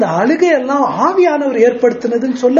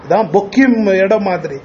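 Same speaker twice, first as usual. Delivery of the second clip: ordinary talk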